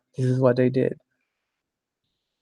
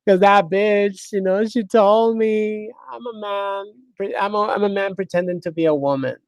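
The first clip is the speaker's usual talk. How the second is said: mock crying woman; 8 semitones higher, 4 dB louder than usual. Mocking the offended commenter with a fake high wail. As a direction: ham up a tearful victim, very high. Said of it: "what do you think we're gonna be like?".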